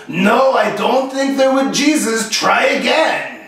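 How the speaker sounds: mock French Canadian accent. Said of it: "he was French, he was from Quebec".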